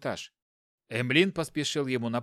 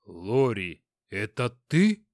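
astonished; 5 semitones lower, 3 dB louder, slower than usual. Acted. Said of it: "изумился инспектор".

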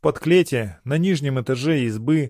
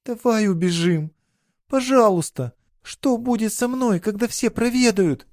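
put-on much higher, pleading girl's voice; in despair; 10 semitones higher than usual. A narrator's reading. Girl begs her lover to run away, in despair. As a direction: she begs him to flee with her. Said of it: "с отчаянием промолвила".

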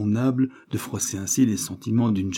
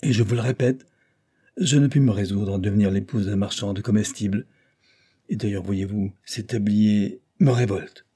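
disdainful lady. Acted. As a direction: look down on his trade. Afi scorning shopkeeper.

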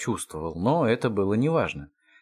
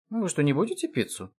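put-on astonished old grandpa, voice lifting; 6 semitones higher, faster than usual. A narrator's reading. Grandpa to the others over uneaten pizza, astonished. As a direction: ask it in amazement, pitched up. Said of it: "изумился дед".

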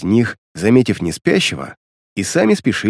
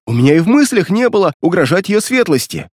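frightened pleading; 7 semitones higher than usual. Acted. Frightened guard keeps pleading.

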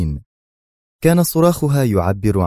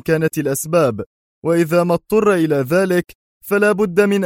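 fierce villain; 9 semitones higher than usual. A narrator's reading. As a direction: threaten like a fierce kidnapper. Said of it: "صوته الأجش الشرس يقول". (شرس متوعد بصوت أعلى)

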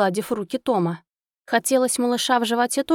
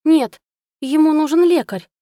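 much higher, much louder cry; panicked refusal; 7 semitones higher, 7 dB louder than usual. Acted. Wife refusing to hand over her pet, high loud panic.

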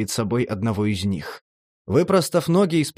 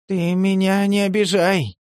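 higher, warning tone; 6 semitones higher than usual. A narrator's reading. The junkie warns Demid off, higher warning voice. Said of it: "предостерегающе ответил наркоман".

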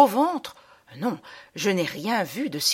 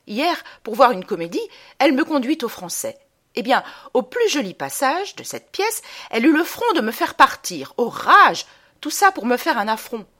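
raised pitch, building to a loud outburst; indignant complaint; 5 semitones higher, 5 dB louder than usual. Acted. Girl complains her mother dragged her from a play, indignant. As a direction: protest the affront with mounting outrage.

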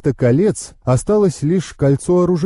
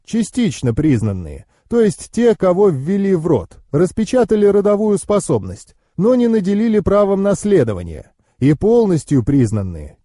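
higher-pitched knowing uncle; explaining uncle; 5 semitones higher than usual. Acted.

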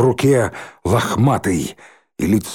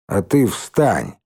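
disgusted; 3 semitones lower, slower than usual. Acted. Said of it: "брезгливо сказала Миронова".

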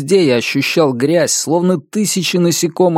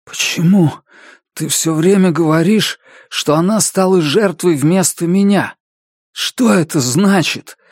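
hoarse voice; 6 semitones higher than usual. A narrator's reading. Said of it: "спросил я охрипшим голосом".

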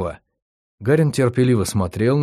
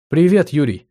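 put-on bright cheerful girl's greeting, higher; cheerful young woman's hello; 5 semitones higher, 4 dB louder than usual. A narrator's reading. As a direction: greet him happily. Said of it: "Жизнерадостный голос девушки".

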